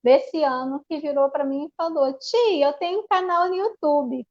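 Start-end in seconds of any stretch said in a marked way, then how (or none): 2.2-4.3 higher-pitched imitation of a young pupil; lightly voiced little pupil. Young pupil telling her teacher about her channel, lightly imitated. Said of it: "de uma aluna minha".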